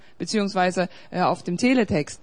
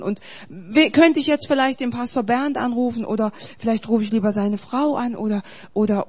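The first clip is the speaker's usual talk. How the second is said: mock worried fretting; 3 dB louder than usual. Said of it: "sollst du nicht sagen".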